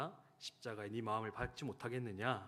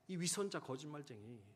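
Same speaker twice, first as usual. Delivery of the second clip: repeated angry accusation; 4 semitones higher than usual. Retold or imitated. Wife repeating her accusation at midnight, angry. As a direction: hurl the words at him again. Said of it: "그렇게 화를 내며".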